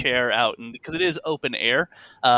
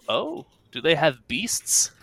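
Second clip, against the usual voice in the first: drawn-out, mildly perked-up question; perking up; slower than usual. Acted. Older patron hears of a carnival, perks up slightly. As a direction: perk up with slow interest. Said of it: "hear the man kind of perk up".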